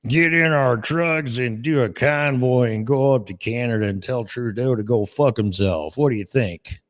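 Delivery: lightly voiced CB-radio trucker; a hint of a trucker on the radio; half-hearted trucker impression; mock trucker. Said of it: "And truck drivers".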